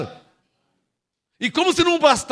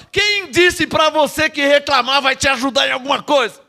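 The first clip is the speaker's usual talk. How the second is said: preaching shout; 4 semitones higher, 5 dB louder than usual. Real, not acted.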